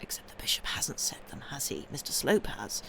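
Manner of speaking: conspiratorial whisper. Real, not acted. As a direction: whisper it like juicy gossip. Gossipy aside about the plot.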